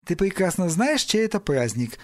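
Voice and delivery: mildly reproving mother. Acted. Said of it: "лишь чуточку повысила голос Мэри". (чуточку повысив голос)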